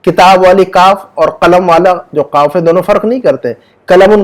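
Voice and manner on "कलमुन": कलमुन with a plain k for the q; Urdu-style k. Shown as a demonstration. Teacher showing Urdu readers' mistake, plain k. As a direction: say कलमुन as "kalamun", front k. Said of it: "बोलते हैं बहुत सारे जो उर्दू".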